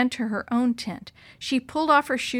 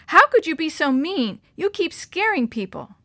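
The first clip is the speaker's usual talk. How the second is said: angry; 7 semitones higher, 6 dB louder than usual. Acted. Sister confronts brother.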